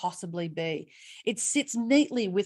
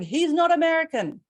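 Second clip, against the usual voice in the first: higher, louder crowd shout; 7 semitones higher, 6 dB louder than usual. Retold or imitated. Rally crowd shouting at the candidate, a mock shout. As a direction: call it out like an angry crowd. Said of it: "so many of them were shouting".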